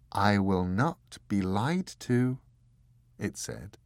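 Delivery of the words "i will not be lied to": less gentle. Acted. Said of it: "a fraction less gentle and less caring".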